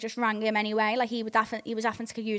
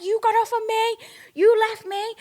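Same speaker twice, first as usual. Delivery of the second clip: put-on whiny boyfriend voice; 12 semitones higher, 4 dB louder than usual. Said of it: "He was like".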